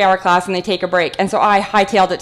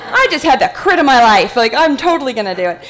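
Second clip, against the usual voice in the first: laughing; 5 semitones higher than usual. Retold or imitated. Eager to volunteer for crit.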